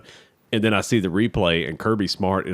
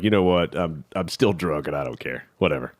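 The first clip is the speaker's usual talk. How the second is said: careless shrug; 3 semitones lower than usual. Retold or imitated. Tipsy champion admitting his state on TV, careless shrug. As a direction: imitate someone past caring. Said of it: "you could tell he could care less".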